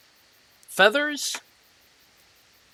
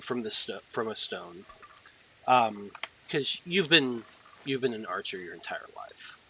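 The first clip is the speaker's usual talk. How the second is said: whispered aside; 3 semitones lower, 6 dB quieter than usual. A narrator's reading. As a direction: whisper it like a secret. GM drops to whisper.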